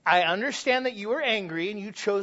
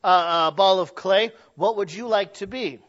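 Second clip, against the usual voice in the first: mock polite clay-shaper. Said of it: "you don't sit there and go".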